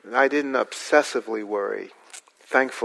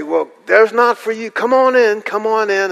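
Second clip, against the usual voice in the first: eager welcome; 9 semitones higher, 5 dB louder than usual. Retold or imitated. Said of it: "And they'd say".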